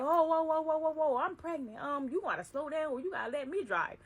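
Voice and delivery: loud, high panicked whoas; alarmed whoa. Retold or imitated. Boss speeding in the Ferrari.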